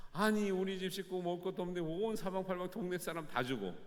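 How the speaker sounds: mock-indignant child's gripe; childish grumble. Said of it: "화가 납니다".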